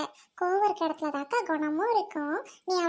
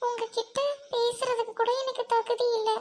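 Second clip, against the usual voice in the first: higher, subdued, level voice; hushed, defeated confession; sorrowful apology; 7 semitones higher than usual. Acted. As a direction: beg forgiveness, feeling unworthy. Girl apologizes, calls herself unworthy.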